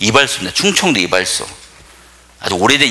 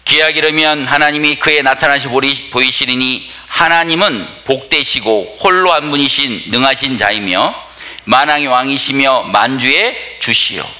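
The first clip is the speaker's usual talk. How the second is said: scripture reading. Real, not acted. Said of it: "화면을 보시면".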